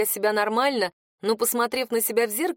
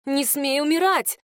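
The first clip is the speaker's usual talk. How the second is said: higher, slow, forceful command; desperate cry; 5 semitones higher than usual. A narrator's reading. She screams at dying Attan, desperate and higher. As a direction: order him not to die. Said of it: "закричала я с такой силой".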